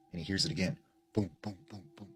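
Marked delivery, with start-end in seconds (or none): 1.1-2.1 soft, evenly spaced knocking booms; imitated knocking. Storyteller imitates knocking heard again at the door, softly voiced booms. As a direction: sound out each knock softly and separately. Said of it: "you know, this loud knocking".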